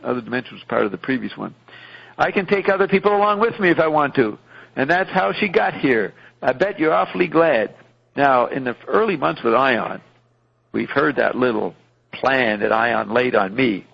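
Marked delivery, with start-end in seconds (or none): 2.2-7.7 bragging a bit higher and quicker; hammed-up self-pleased hero; smug boast. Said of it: "Beefheart smugly says".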